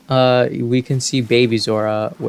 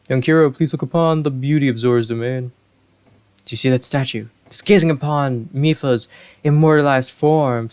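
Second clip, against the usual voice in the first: lightly voiced regal fish king; a hint of a booming Zora monarch; kingly Zora voice; faster than usual. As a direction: speak as a gracious old king. King Dorephan voice continues.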